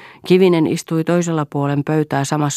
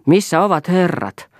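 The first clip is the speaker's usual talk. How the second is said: high, loud call; shouting; 7 semitones higher, 4 dB louder than usual. A narrator's reading. Tuira rushing the crowd, a loud shout. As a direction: yell it into the crowd. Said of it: "huusi Tuira".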